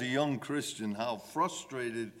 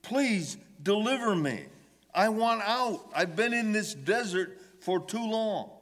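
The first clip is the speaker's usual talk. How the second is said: higher, pleading cry to God; 5 semitones higher than usual. Retold or imitated. Psalmist begging God for deliverance, higher pleading cry. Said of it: "he's crying out".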